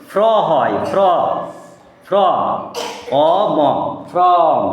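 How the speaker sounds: ফ্র, pause, অ ম, then from whole; sounding out from. Shown as a demonstration. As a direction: build from out of ফ্র and অ ম. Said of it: "এই এফ আর মিলে".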